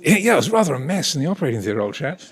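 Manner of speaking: fast, breezy posh officer's understatement; posh English accent. Retold or imitated. Consultant recounting the operation to the patient, in posh English accent. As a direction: shrug off the mess lightly, in posh English. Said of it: "I'm not exaggerating his accent".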